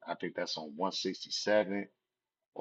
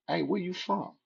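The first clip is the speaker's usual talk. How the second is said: high-pitched yelled challenge from a car window; mock gang challenge; 11 semitones higher than usual. Girl in car challenging a stranger, high yelled challenge. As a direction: call it out like picking a fight.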